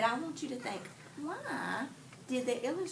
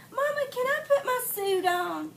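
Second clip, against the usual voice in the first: higher, lightly voiced little girl asking; girl asking Mama; 11 semitones higher, 6 dB louder than usual. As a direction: pitch it up like a child asking permission. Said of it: "remember Tessie said".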